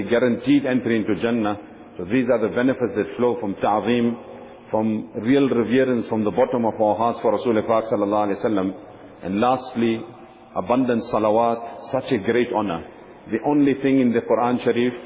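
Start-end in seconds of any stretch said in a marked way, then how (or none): none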